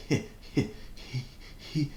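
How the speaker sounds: breathy, broken "he" with gaps; failed H sound. Shown as a demonstration. Showing how the H's wouldn't come out, breathy stuttered "he". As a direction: struggle to push out each high, airy "he". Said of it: "I couldn't make that".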